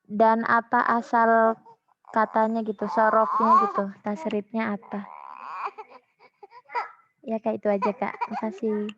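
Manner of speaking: choppy online call, dropping out; words breaking up over bad connection; corrupted glitchy audio. Real, not acted. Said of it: "ini suaranya putus-putus".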